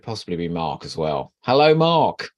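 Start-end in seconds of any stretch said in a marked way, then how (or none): 1.4-2.3 loud greeting. Real, not acted. Calling out a greeting.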